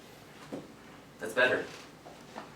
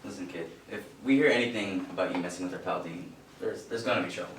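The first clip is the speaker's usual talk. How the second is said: low, menacing warning; low threat; 7 semitones lower, 6 dB quieter than usual. Acted. Bully warning a writer to leave Dean alone, menacing. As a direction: lean in and threaten him quietly.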